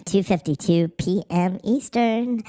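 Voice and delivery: whispered aside. Real, not acted. Streamer whispering the time to chat. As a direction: breathe the time out under the breath.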